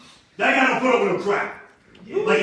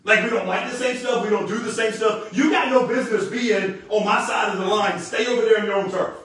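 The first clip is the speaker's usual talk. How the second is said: mock tough-guy brush-off; thug attitude; 3 semitones higher than usual. Preacher voicing Elijah to the kings with lightly mock thug attitude. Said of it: "he's getting some thug attitude in it".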